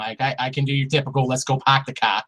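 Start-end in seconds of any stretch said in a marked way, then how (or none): 1.3-2.2 lightly done Boston accent; a little bit of Boston. Shown as a demonstration. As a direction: drop the r's like a typical Bostonian. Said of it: "I can do a little bit of Boston accent".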